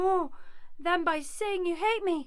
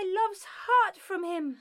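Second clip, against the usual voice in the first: crying accusation. Acted. Hermia accusing Helena, in tears.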